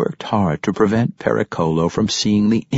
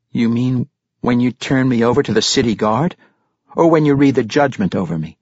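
questioning character voice, pitched up; lightly voiced Regis; 7 semitones higher, 4 dB louder than usual. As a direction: ask warily, a touch higher. Narrator voices worried Regis questioning.

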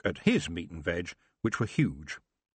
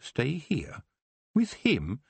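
contained shriek, pitched up; mock inward shriek; 6 semitones higher, slower than usual. A narrator's reading. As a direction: think it in horrified disbelief. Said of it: "her mind shrieked".

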